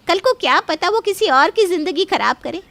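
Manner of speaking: ordinary delivery, nothing marked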